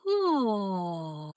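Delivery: long falling yawn-like "oh"; open-throated "oh". Shown as a demonstration. Coach showing the lift in the back, yawny "oh". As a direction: lift the back and let the oh slide down. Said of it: "I'm lifted in the back".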